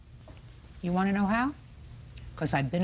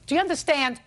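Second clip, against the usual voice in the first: stern warning; 7 semitones higher, 5 dB louder, faster than usual. Real, not acted.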